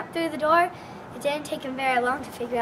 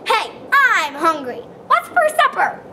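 louder, rising to a high giant bellow; demanding giant; 4 semitones higher, 9 dB louder than usual. A narrator's reading. Giant demanding supper from the jukebox, loud bellow. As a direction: bellow for food like a spoiled giant. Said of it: "roared the giant".

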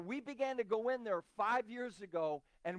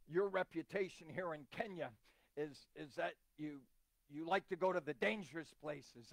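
low, softened imitation of an African pastor; lightly imitated African pastor, hesitant phrasing; 4 semitones lower, 4 dB quieter than usual. Pastor telling visitor his reputation, African voice. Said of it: "in his African voice".

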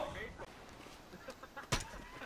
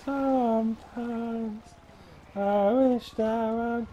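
mock lament; much slower than usual.

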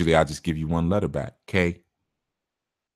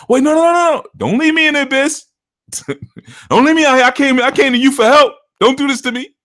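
very high, loud panicked pleading; mock panic; 7 dB louder than usual. Caller begging the reader not to abandon him. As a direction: beg like you are falling into the abyss.

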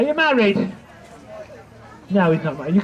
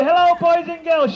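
panto callback; 6 semitones higher, 3 dB louder than usual. Shown as a demonstration. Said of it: "So when I say".

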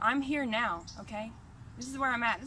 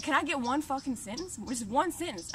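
mock-harsh demand for one sentence. Retelling to the visitor, a harsh demand he denies making. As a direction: snap out the demand like he never did. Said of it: "I didn't even say it like that".

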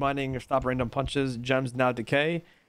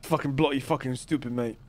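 hammed-up British swearing; mock British accent. Teasing the lawyer, mock British accent. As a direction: imitate his British accent badly. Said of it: "I don't sound like that".

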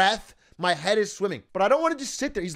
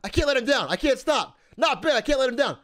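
higher-pitched, acted inner pleading; desperate self-talk; 4 semitones higher than usual. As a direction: mock-desperate voice of a struggling brain. Retold panicked inner pep talk.

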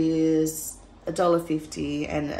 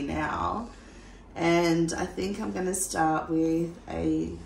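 slow, just-woken-up morning voice; slower than usual. Real, not acted. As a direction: sound like you just got out of bed. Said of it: "sorry about my voice, it's morning voice".

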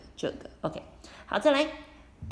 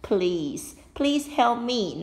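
put-on pleading old lady; 3 semitones higher, 4 dB louder than usual.

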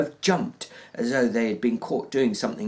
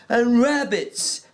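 eagerly; 12 semitones higher, 4 dB louder, slower than usual. Acted. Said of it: "Lenny said eagerly".

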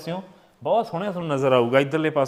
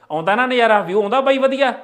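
dramatic loud aunty; 7 semitones higher, 4 dB louder than usual. Real, not acted. Gushing over the view outside.

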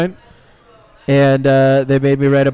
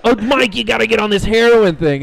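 higher voice, mock eager pusher; mock peer pressure; 5 semitones higher, 3 dB louder than usual. Mocking friends who push him to try heroin. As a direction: egg him on like a pushy friend.

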